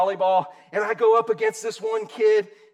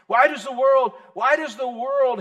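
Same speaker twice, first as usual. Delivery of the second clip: loud repeat; 4 semitones higher, 5 dB louder than usual. Real, not acted. Repeats question loudly.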